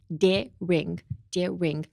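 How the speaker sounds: "Daring" split clearly into dare and ring; pronunciation model. Shown as a demonstration. Teacher demonstrates mouth and tongue position, careful pronunciation. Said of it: "let's look at the pronunciation".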